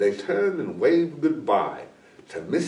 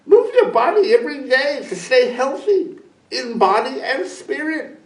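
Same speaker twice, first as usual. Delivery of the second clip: little hummingbird; 13 semitones higher, 4 dB louder than usual. A narrator's reading. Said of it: "Little Hummingbird smiled and said".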